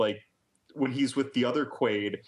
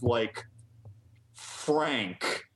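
ordinary delivery

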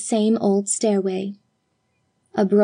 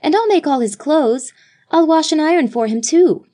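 higher, quick, eager promise; higher girlish voice, hurrying; eager little girl; 7 semitones higher, 4 dB louder than usual. A narrator's reading. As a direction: rush the offer out like a keen child. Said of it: "This from Judith".

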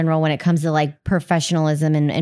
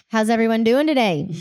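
cheesy presenter; 2 semitones higher than usual. Shown as a demonstration. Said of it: "Come on, you can do better".

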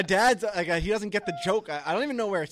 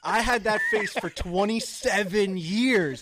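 higher, louder, slow indignant protest; mock outrage; 6 semitones higher, 5 dB louder than usual. Arguing with his parents over an old photo, higher and louder in mock outrage. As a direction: play up the wounded son. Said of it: "And I was like".

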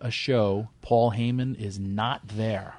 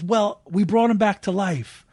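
much higher, louder, in someone else's voice; retold excited explanation; 10 semitones higher, 5 dB louder than usual. Frantic wrestler explains to the promoter they revived Sandman, high and loud.

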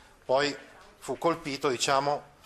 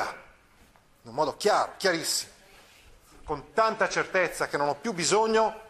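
defiant. Acted. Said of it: "Vedete come io pronuncio questo nome? Con la fronte alta".

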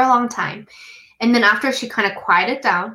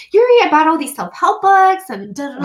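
imitating mom; 6 semitones higher, 5 dB louder than usual. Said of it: "she's like".

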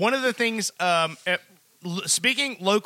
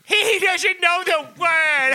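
slow, high, louder mock dad voice; dad mocking his kid, hammed up and slow; 9 semitones higher, 5 dB louder, much slower than usual. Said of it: "Your dad's going".

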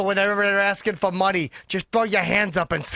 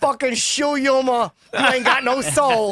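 silly clown; 4 semitones higher than usual. Acted. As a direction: ham it up like a clown. Clowning character banter.

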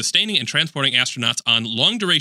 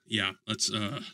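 underwater; 5 semitones lower, 12 dB quieter, slower than usual. Real, not acted. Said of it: "It sounds like you're underwater".

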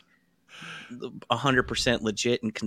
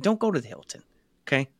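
put-on Italian accent; 3 dB quieter, faster than usual. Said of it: "does he turn into an Italian guy".

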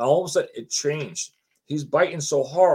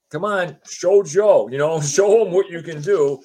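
retold egging on; 4 semitones higher, 5 dB louder than usual. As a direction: goad them to show off, voice raised. Retold crowd egging Joe on.

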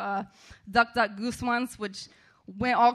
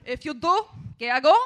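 hammed-up bossy lifeguard reciting her list; imitating the bossy lifeguard with her growing list of rules; mock bossy lifeguard; 4 semitones higher than usual. Rosa listing rules again.

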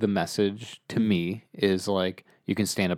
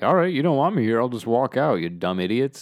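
raised, louder dismissive jab; mock brush-off of the bullies; dismissive walk-off; 3 semitones higher, 3 dB louder than usual. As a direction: brush them off and leave. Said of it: "he's just like".

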